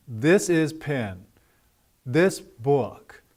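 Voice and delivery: slow learner phrase without the "a"; each word set apart, no "a"; missing article. Shown as a demonstration. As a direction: say "This is pen" with the article left out. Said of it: "they were dropping the indefinite article".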